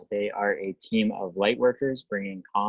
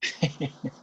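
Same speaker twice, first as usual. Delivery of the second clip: brief, higher-pitched chuckle; short chuckle; 5 semitones higher than usual. Real, not acted. Host getting the online session going, short chuckle. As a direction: let out a quick little laugh. Host laughs while setting up.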